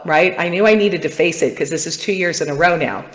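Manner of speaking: usual speaking voice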